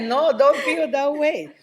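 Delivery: reassuring grandmother. Retold or imitated. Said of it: "She said".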